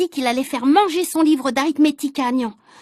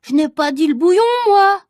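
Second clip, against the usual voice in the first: aggrieved protest; 5 semitones higher, 6 dB louder than usual. Acted. Alceste protesting.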